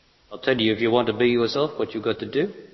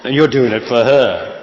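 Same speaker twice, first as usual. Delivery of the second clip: laughing; 6 dB louder than usual. Real, not acted. Laugh heard on line.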